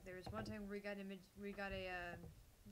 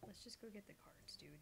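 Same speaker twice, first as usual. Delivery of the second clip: whispering; 8 dB quieter than usual. Real, not acted. Aside about getting cards.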